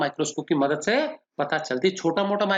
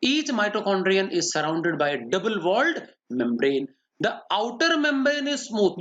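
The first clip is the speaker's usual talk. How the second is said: slow, word-by-word dictation, a bit quicker; repeating a dictated note; much slower than usual. Shown as a demonstration. Teacher repeating the note for students, slow dictation. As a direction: read it back slowly for the students to check.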